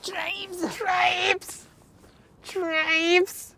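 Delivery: very high squeaky game call; imitated game shout. Gamer imitating a jump sound from Tribes, high-pitched yelp.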